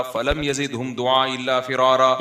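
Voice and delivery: slow, sustained Arabic recitation; Quran recitation. Acted. Preacher quoting Noah's prayer to listeners, measured recitation. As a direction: recite the verse with drawn-out vowels.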